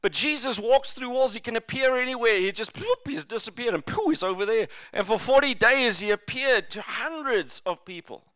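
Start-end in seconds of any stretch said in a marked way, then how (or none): 2.7-3.1 quick cartoon "bloop"; popping vanishing noise. Imitates sound of vanishing. 3.9-4.1 quick puffed "pooh" effect; reappearing noise. Retold or imitated. Imitates sound of reappearing.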